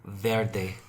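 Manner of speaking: VERDE as "VAIR-day", Spanish-style; Spanish accent. Shown as a demonstration. Doubtful white speaker showing the accented word, Spanish accent. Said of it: "say it with that accent".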